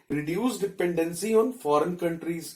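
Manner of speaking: slow, even dictation pace; dictating notes. Shown as a demonstration. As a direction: read it out slowly so students can write. Teacher dictates notes in English. (धीमी गति से notes लिखवाना)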